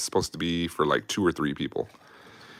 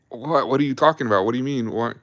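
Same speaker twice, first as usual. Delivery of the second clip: higher-pitched, baffled string of questions; mock bewilderment; 6 semitones higher than usual. Patient told he should have passed out, acted higher-pitched bewilderment. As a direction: imitate being thrown, questions tumbling out. Retold bewildered reply to the doctor.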